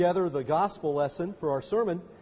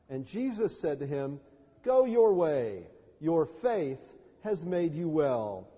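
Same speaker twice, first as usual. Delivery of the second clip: measured, lower-pitched gospel reading; scripture reading; 3 semitones lower than usual. A narrator's reading. Pastor reads Bartimaeus's healing to the congregation, scripture reading. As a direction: read the story solemnly, with pauses between phrases.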